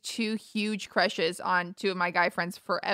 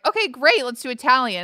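mock eager agreement; 3 semitones higher, 4 dB louder than usual. Friend agreeing on a dinner plan, eagerly. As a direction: agree brightly, as an easygoing dinner date.

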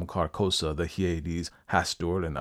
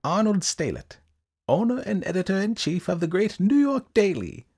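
high, loud, declaiming little man; high-pitched, officious recital; eccentric ledger-keeper; 13 semitones higher, 4 dB louder than usual. A narrator's reading. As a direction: read the entry out in a high, emphatic voice.

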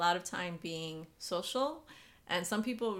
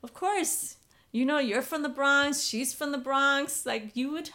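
parents' voice; 5 semitones higher, 5 dB louder than usual. Retold or imitated. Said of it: "And they were just like".

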